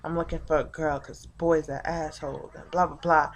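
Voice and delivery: low-key retold brush-off; offhand imitation of her. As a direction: toss it off quietly, like her excuse. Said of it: "She's like".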